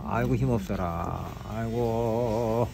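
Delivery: slow, droopy, worn-out sigh; limp and tired. Shown as a demonstration. Instructor shows trainee a limp, weary sigh. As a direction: let it sag like you're exhausted. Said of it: "축 늘어지는 듯한 느낌으로".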